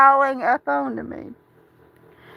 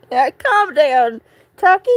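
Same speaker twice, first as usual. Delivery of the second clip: soothing pet; 2 semitones higher, 3 dB louder than usual. Real, not acted. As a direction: coo at the cat to settle it. Soothing her upset cat Tuxie.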